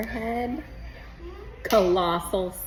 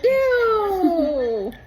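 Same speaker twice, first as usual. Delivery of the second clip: loud, high laughing ew; laughing grossed-out ew; laughing disgust; 9 semitones higher, 6 dB louder than usual. Real, not acted. Reacting to sour candy.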